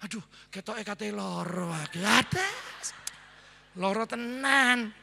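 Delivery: slow, droopy complaint of feeling ill; mock sickly moaning. Shown as a demonstration. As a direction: moan it like you're about to get sick. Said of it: "Jangan bangun pagi ngomongnya gini". (keluhan lesu pura-pura sakit, pelan)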